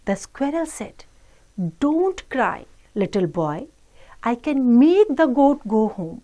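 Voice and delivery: slow, measured English read-aloud; children's story reading. Acted. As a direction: read slowly to children, word by word. Reads English story slowly to children. (बच्चों को धीरे-धीरे कहानी पढ़कर सुनाना)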